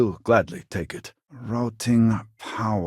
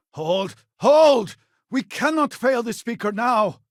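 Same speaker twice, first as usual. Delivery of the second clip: commanding shout; 4 dB louder than usual. Acted. Rallying defenders in battle.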